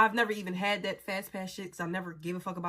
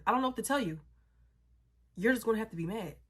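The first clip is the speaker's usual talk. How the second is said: mock echo of her words, pitched up; echoing her lines; faster than usual. Teller quoting the friend's same exact lines back, pointed echo. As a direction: throw her own line back, lifted in pitch. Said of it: "Her same exact lines. No less, no more".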